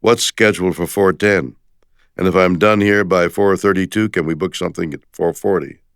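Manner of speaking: a hint of an anxious scheduler; mock impression of me. Friend lightly mimicking the narrator booking every minute, mildly voiced. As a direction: rattle off the times like a busy worrier. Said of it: "he'd say in his best Shatner".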